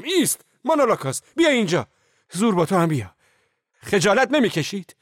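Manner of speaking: high, loud stop-the-fight yell; commanding shout. A narrator's reading. Narrator stepping between the two men, shouting them down. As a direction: bark them apart like a referee. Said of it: "داد زدم".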